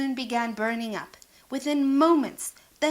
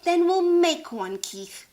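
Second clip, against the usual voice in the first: bright, higher hippo voice, louder; hippo Sheila; 6 semitones higher, 5 dB louder than usual. Acted. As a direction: voice Sheila the hippo with big hopes. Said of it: "Sheila replied".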